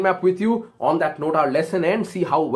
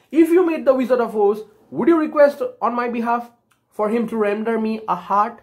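lightly acted plea in a higher voice; Tin Man; 5 semitones higher than usual. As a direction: ask a favour, pitched up.

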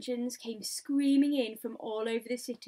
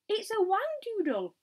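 high, loud yelp of alarm; alarmed yell; 10 semitones higher, 6 dB louder than usual. A narrator's reading. Fire chief yelling at the creature, alarmed yell. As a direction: yell out your rival guess. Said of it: "yelled the head of the fire department".

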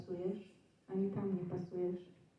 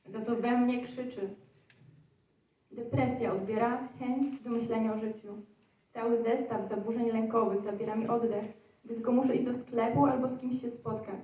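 mounting overwhelm; 3 dB louder than usual. Acted. Poet telling of the screaming inside her, mounting overwhelm. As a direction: recite with growing, slightly raised urgency.

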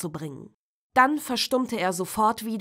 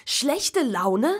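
louder, "Schlechte" hit hard; rising anger; 3 semitones higher, 4 dB louder than usual. Acted. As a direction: spit out "Schlechte Laune" harder. Tom repeats, angrier.

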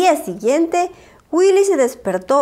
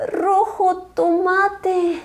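dramatic reveal; 6 semitones higher, much slower than usual. A narrator's reading.

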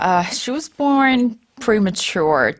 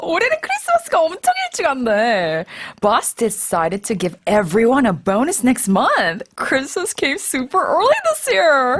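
excited; 4 semitones higher, slower than usual. Acted. Excited about surprise bonus.

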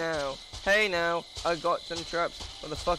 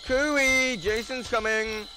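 taunting call; 5 semitones higher, 4 dB louder, slower than usual. Pretend. Calling out to the hiders.

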